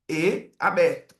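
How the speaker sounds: "E" sounded open like in "é", drawn out. Shown as a demonstration. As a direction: demonstrate the open "E" slowly. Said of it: "o E tem dois sons".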